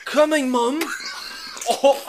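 calling out. Real, not acted. Calling out to mom.

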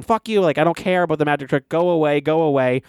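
half-hearted acted screaming; retold scream. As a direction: imitate an angry son shouting, at talking volume. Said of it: "Adam Sandler screaming at him".

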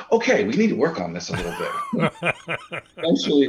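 high, fast, laughing. Retold or imitated. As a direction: say it through a laugh. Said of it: "And we go".

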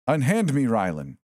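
high, loud mock-outraged demand; a prankster playing a haughty doll; indignant mannequin voice. A narrator's reading. Mannequin protests being carried.

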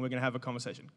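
soft cue. Real, not acted. Cueing volunteer softly.

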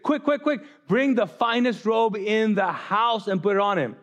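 high, hurried calling out; urgent. Retold or imitated. Father urges servants to hurry for his son.

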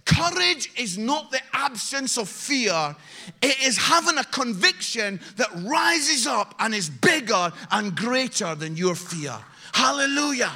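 loud, ringing preacher's exhortation; rally the church at the top of the voice; full-force preaching. Acted. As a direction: preach it out to the whole room.

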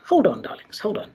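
unvoiced whisper between sips. Real, not acted. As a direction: whisper it while reaching for a drink. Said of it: "Let me have a sip of my drink".

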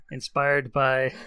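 slow, unsure start; hesitant. Pretend. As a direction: trail off without committing. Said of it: "You can't even commit".

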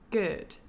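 "good" with an almost "er" vowel; British "good". Shown as a demonstration. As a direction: say "good" short and central, British style. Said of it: "is more British".

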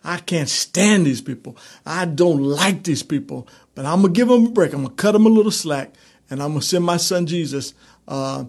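playing an exasperated God; mock angry God. Preacher imitating an angry God to the congregation, mock exasperated. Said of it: "he said".

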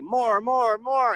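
high and loud, pushing the band on; mock bandleader yell; urging shout. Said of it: "he would say".

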